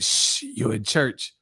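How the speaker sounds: soft, slow shushing; church lady. Retold or imitated. Church lady shushing Martin, soft and slow. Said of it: "That the girl at the church".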